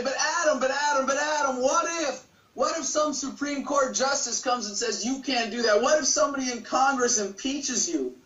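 a hint of high-pitched, insistent worry; mock objectors. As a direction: imitate people pestering with what-ifs. Acts out worried objectors' repeated what-ifs.

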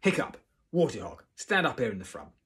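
loud, commanding instructor; yelling teacher. A narrator's reading. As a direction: bark out the role-play orders. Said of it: "yelled Gobber".

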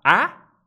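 "A" larga y fuerte con la boca más cerrada. Shown as a demonstration. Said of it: "largo, pero con la boca más cerrada". ("A" larga, fuerte, boca más cerrada)

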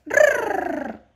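high, loud puppet trill; Osito. Pretend. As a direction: roll it long as a squeaky toy bear. (erre larga y aguda con voz de osito)

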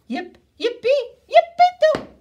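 high squealing yippee; excited cheer. A narrator's reading. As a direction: shout it like a happy pup. Dogs cheering wildly.

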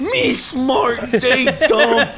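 high, broken dumb-guy talk; caveman voice. Acted. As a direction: grunt it like a caveman.

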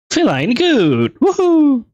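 high, loud happy squeal; excited cheer. Real, not acted. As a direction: cheer it out with joy. Cheering at game cat.

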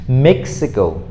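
"Mexico" slowly, stressed on the first syllable; slow, careful "Mexico", falling after the stress; model pronunciation. Shown as a demonstration. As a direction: demonstrate "Mexico" with the weight on "Mex". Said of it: "learn how to say it with me".

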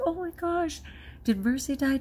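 mock panic. Panicked retold reaction to card.

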